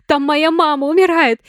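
high, loud, tearful accusation; accusing cry. A narrator's reading. Sonya screams at Lena that her mother is dying. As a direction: throw the blame at her.

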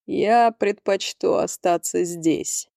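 muffled voice from darkness. Acted. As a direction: speak muffled, like from the dark. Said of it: "глухой голос из темноты". (глухой голос из темноты)

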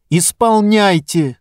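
strained, cracking command; breaking shout. Acted. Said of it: "срывающимся голосом крикнула Лита".

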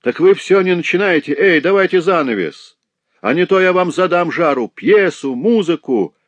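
high, loud rowdy shouting; heckling yells. A narrator's reading. Lame boy bangs his feet and heckles, yelling. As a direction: stamp and bellow for the show to start. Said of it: "сопровождая каждый стук выкриками".

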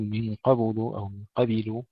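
a short vowel slipped after the ب of قبل; wrong qabl with added vowel. Shown as a demonstration. Tajweed teacher showing students what not to say, mispronounced قبل. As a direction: break the silent ب in قبل with a vowel. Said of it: "ولا نقول".

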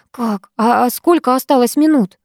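ахнув. Acted. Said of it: "ахнула я".

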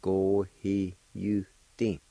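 "Go, he, you, di" with a full "you" syllable; U pronounced out. Shown as a demonstration. Teacher showing the other okay way, slow "Go, he, you, di". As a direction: sound the "you" separately between "he" and "di". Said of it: "if you pronounce it out".

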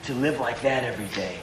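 awed hush. Retold or imitated. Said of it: "And I go".

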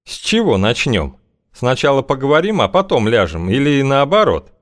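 high, sly woman's voice. Acted. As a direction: purr it, way up high. Feodosia's voice held.

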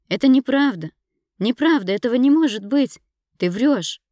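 high, loud frantic denial; desperate shouting. A narrator's reading. Dina yelling at Ira that she lies, frantic. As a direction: scream it away, refusing to believe.

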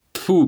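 резкое высокое «тьфу» с плевком; сплюнуть ему в глаза; плевок. A narrator's reading. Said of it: "плюнул Челкаш". (Челкаш презрительно плюёт в Гаврилу)

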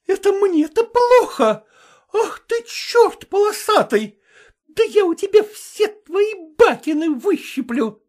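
furious taunt. Acted. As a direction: dare him, furious. Vasilisa attacks the cook.

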